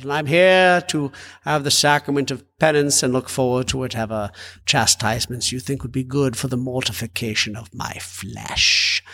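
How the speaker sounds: hammed-up British confession; pompous British penitent, slowing at the ends; grandly suffering British pilgrim, lightly done; mock British accent. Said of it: "do it in a British accent for fun".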